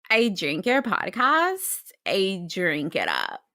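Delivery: put-on Daniel Day-Lewis as a Valley Girl; LA Valley Girl voice, upspeak. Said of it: "can you do an impression of Daniel Day-Lewis being a, a Valley Girl".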